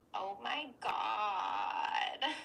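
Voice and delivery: low, creaky vocal fry with dropped pitch. Teaching how to sound like a valley girl, demonstrating with creaky voice. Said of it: "use creaky voice".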